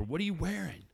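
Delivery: flirty texting wife. Acted. Wife secretly texting the neighbor, mock flirting. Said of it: "She's just asking the neighbor".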